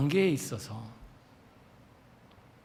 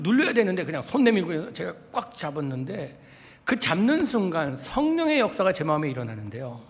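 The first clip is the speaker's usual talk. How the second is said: normal talking voice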